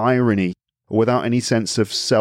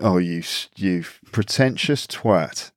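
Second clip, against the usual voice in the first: slow, drawn-out mock contempt; muttered insult, drawing out pretentious twat; mock disdain; 3 semitones lower, slower than usual. Everyone judging the show-off, slow mock disdain. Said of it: "everyone's gonna think".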